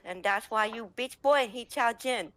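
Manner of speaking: Ping Ting gloating. Retold or imitated. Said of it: "she goes".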